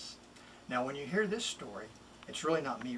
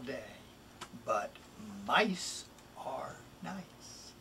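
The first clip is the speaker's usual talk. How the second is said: a pet-store mouse selling himself, lively and bouncy; lightly voiced mouse, playful and persuasive; eager mouse reading his rhyme. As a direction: read it as the little mouse pleading to go home. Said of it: "It's really the mouse speaking".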